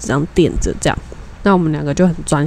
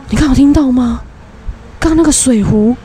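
startled maid; 6 semitones higher than usual. Retold or imitated. Maid asks the speaker about the bang, startled. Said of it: "外劳就跟我说".

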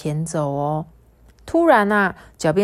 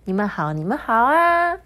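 excited greeting; 7 semitones higher than usual. Acted. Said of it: "嘟嘟香兴奋的只会说".

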